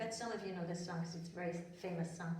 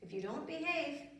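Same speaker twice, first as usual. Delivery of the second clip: fairy voice; 5 semitones higher than usual. Acted. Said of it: "and she said".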